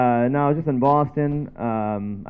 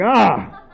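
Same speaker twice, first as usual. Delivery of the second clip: short, higher cry of shock; mock startled yell; 6 semitones higher than usual. Reacting to shocking porn, mock startled yell. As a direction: yelp as if scared by what you saw. Acted fright at shocking video.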